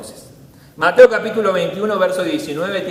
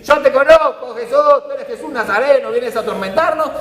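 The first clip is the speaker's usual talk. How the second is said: lightly voiced demon, higher and louder; demon shouting; 6 semitones higher, 4 dB louder than usual. Possessed man yelling at Jesus, a light mock demon voice. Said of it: "empieza a gritar".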